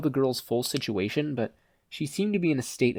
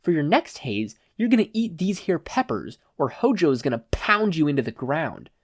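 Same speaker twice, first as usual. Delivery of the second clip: a hint of a smug higher thug; lightly voiced thug; 5 semitones higher than usual. Thug handing Izuku peppers, lightly mocking. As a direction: threaten him with a grin.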